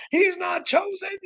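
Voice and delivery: very high, squealed denial; high-pitched jeering protest; mock outraged crew. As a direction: imitate an indignant crowd up high. Voices crew shouting back.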